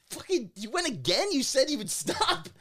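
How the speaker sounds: teasing a friend who went back to the parlor; mock scolding. Scolding friend in retold story.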